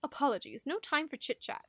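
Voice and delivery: lightly British, brisk and curt; a hint of a clipped British gentleman; British accent. Solomon brushing Luca off, in a light British accent. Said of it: "He's British".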